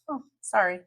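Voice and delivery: a tossed-off, empty "sorry"; flat fake apology. Shown as a demonstration. An insincere narcissist shrugging off an apology, flat. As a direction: say it like you don't mean it at all. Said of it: "Very flat".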